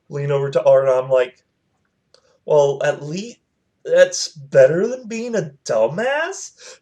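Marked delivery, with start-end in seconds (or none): 2.5-6.8 high, drawn-out mock-innocent jab; teasing comeback. Leaning over to Art after her insult, teasing comeback. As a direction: lift the voice for a cheeky retort.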